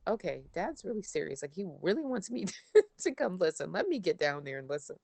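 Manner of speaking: giving in. Retold or imitated. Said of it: "And I'd be like".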